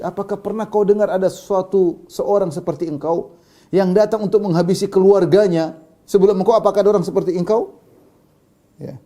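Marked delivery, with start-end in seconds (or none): 0.0-7.8 raised, challenging retold taunt; higher-pitched, emphatic jibe; mocking jibe. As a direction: taunt him with an incredulous question. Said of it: "Urwah ngejek atau nyindir".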